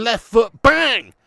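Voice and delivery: punchy loud call; excited. Real, not acted. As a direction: shout the strike out. Replaying goal strike.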